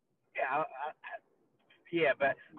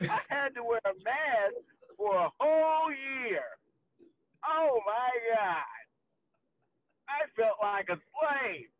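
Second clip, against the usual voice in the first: mock dramatic lament; 4 semitones higher, slower than usual. Sarcastic mock complaint.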